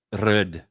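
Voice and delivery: "rud" with a rolled opening r; pronunciation demo. Shown as a demonstration. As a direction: demonstrate "rud", leaning on the r. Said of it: "it's ... or something like that".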